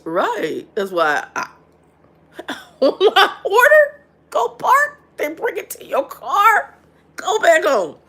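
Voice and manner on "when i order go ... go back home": laughs it out, higher and louder; real amused laughter through the words; laughing. Real, not acted. Speaker laughing while describing the pickup routine to viewers.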